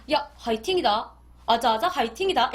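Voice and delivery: North Korean way. Shown as a demonstration. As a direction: say it like a blunt North Korean buddy. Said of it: "이렇게 말하거든요".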